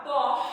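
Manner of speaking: POR with the final R drawn out; drawn-out R sound. Shown as a demonstration. Teacher shows the class the syllable, drawn-out R in "pó". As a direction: stretch the R at the end of "pó", as "por". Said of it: "Sonzinho puxado".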